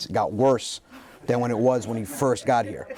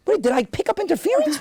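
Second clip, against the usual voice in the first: self-doubting. Retold or imitated. Doubting himself.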